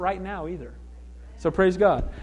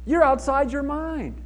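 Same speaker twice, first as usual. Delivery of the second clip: dismissive disbelief; 5 semitones higher, slower than usual. Acted. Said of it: "They said to her".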